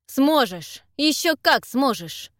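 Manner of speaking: hard, loud, slowed insistence; no pity at all, hammer it in; pitiless. Acted. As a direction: Tederik coldly insisting Zak will live on. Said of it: "ни капли жалости или сочувствия".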